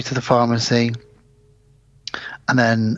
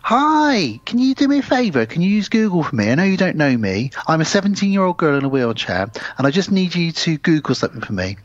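put-on higher pleading girl on the phone; butter up a stranger for a favour, higher; mock sweet voice; 5 semitones higher than usual. Girl on the phone to a stranger, sweet and pleading.

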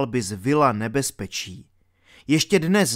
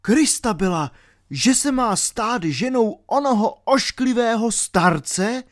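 higher-pitched, incredulous outcry; appalled amazement; 7 semitones higher than usual. A narrator's reading. Knight learns his love will marry an old man, appalled amazement. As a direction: exclaim it aghast, pitch raised. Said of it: "Zvolal v úžasu rytíř".

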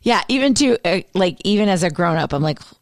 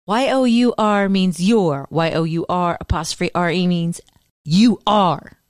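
quoting Rachel. Retold or imitated. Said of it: "pivotal scene in Friends".

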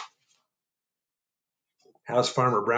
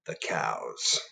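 soft whispered sign-off; whispered signature; 12 semitones lower, 8 dB quieter than usual. Acted. Reader whispering the cows' signature to kids. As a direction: whisper it like a secret. Cows sign their note.

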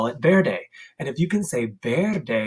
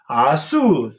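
sneeze azul; 5 dB louder than usual. Shown as a demonstration. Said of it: "blue dog sneezes".

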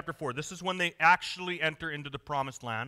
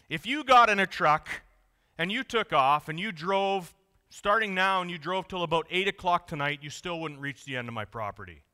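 big Texan rancher; 4 dB louder than usual. Retold or imitated. Rancher boasting to a visitor about his farm, booming Texan voice. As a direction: brag about your land like a big-hat Texan. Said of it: "and he says".

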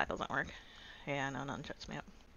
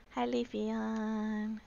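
slow cooing greeting; 4 semitones higher, 4 dB quieter, much slower than usual. Real, not acted. Cooing at a Pokemon.

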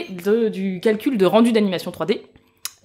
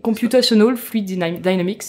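a light English accent on the technical term. Shown as a demonstration. Guest explaining CFD to the hosts in an English accent. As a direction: say it with your best English accent, playfully. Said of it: "je vais prendre mon plus bel accent anglais".

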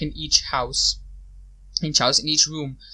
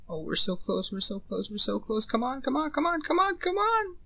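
rising frantic urging; 9 semitones higher, 7 dB quieter than usual. Real, not acted. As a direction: pitch climbing higher with each come on. Racing to finish, mounting tension.

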